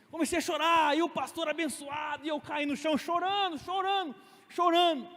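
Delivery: worked-up account of breaking down; dramatic retold weeping. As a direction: pile up each repeat with rising urgency. Re-enacts his desperate crying.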